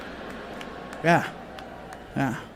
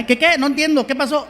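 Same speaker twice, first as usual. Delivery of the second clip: higher, puzzled vendor voice; confused vendor; 5 semitones higher, faster than usual. Retold or imitated. Taco vendor answering the comedian, higher and puzzled. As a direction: play the baffled vendor not following English.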